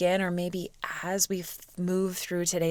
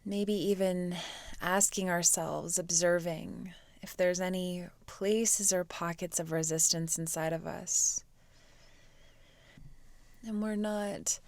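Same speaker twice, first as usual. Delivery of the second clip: soft, unhurried meditation voice; guided meditation; 5 dB quieter than usual. Real, not acted. Teacher guides students to quiet the mind, soft meditation voice. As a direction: ease them into stillness with long pauses.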